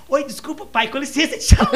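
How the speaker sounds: the son greeting his own father by mistake, loud. Retold or imitated. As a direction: bump into dad and rush off loudly. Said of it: "Aí ele falou assim".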